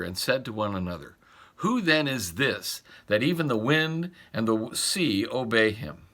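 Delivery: measured, reverent Bible reading; scripture reading. Acted. Pastor reading Mark's Gospel to the congregation, reverent reading. Reads the Gospel passage aloud.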